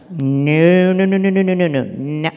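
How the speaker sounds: loud, firm repeated no. Shown as a demonstration. Mother firmly refusing the child's words, loud. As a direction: shut it down with insistent noes. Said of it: "we really don't talk like that".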